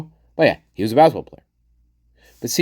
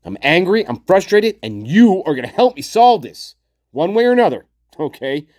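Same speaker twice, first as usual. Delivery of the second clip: demo angry detective; 4 semitones higher than usual. Shown as a demonstration. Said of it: "That's how you go into it".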